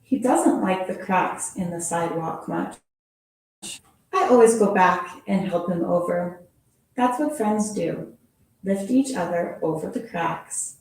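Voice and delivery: gentle storybook read-aloud; expressive picture-book reading; reading to children. Acted. Reads second picture book.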